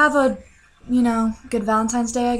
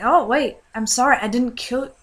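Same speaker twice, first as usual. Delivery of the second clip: louder, panicky sorry; flustered apology; 2 semitones higher, 3 dB louder than usual. Retold or imitated. Dreamer pleads with the furious mother, loud and flustered. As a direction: babble an apology in a rush. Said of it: "I was like".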